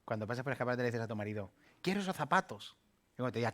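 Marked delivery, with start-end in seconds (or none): 1.8-2.8 higher, wheedling request; a hint of a spoiled wife; lightly voiced pleading wife; demanding wife.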